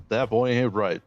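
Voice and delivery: shy, barely changed Hank Hill try; half-hearted go at the Hank voice; a hint of Hank Hill; Hank Hill attempt. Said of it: "Let's hear your Hank".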